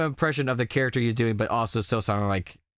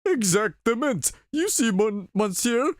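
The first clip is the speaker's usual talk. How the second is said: put-on French accent; 10 semitones higher than usual. Reading French character aloud.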